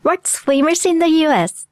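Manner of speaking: slow English model phrase; drawn-out, clearly spaced demonstration; listening practice model. Shown as a demonstration. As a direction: say it slowly for learners to catch. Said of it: "one more, one more".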